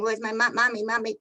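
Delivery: retold child calling, pitch a little up; lightly voiced frightened child calling out; child crying for mommy. Little girl searching the street for her mother, a mild crying call. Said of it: "started crying".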